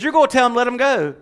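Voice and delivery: loud, forceful command. Acted. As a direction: order it with full authority. God's command voiced.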